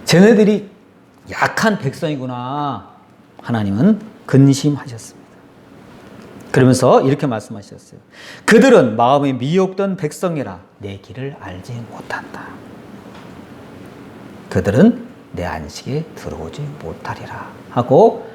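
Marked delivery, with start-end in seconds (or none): 0.1-2.9 sorrowful God. Retold or imitated. God grieving, quoted twice. 8.4-17.5 solemn whisper. Acted. God's solemn oath quoted.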